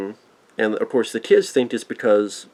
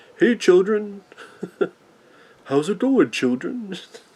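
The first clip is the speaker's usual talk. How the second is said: friendly, swooping, pitched-up, sing-song voice; 9 semitones higher than usual. Describing the anime version of Chef, the speaker does his voice: Chef voice, nice demeanor. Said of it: "that voice and that nice demeanor".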